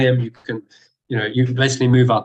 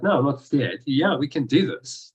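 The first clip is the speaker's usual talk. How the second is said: retold unruffled, assured reply; calm confidence. Martial artist refuses to play victim to thugs, calm and confident. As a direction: answer with easy presence, unafraid. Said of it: "says it with such presence and confidence".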